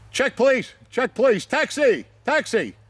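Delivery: high, loud mock panic calls; panicked mock plea. Narrator begging to leave the restaurant, high panicked mock calls. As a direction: squeak out an escape plea. Wanting to flee the scene.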